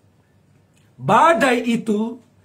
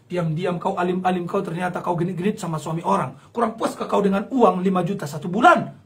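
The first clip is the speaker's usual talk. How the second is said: accusing husband; 4 semitones lower than usual. Acted. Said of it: "langsung berkata".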